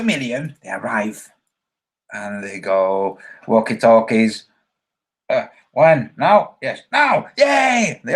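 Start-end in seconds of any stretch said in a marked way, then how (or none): 5.7-8.0 rising into a high, loud cheer; excited crowd cheer. Retold or imitated. Crowd storming the gates, cheering loudly. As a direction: whip the crowd up until they shout yay.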